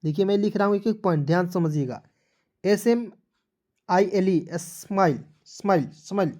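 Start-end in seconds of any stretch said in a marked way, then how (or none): 4.5-6.3 repeating the word for pupils; model pronunciation. Shown as a demonstration. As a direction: say स्माइल again and again to show it. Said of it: "इस तरह से।".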